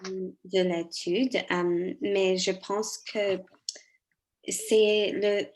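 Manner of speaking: French with a non-native accent; careful second-language French, foreign accent. Real, not acted. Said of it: "je m'excuse si mon français n'est pas très bon".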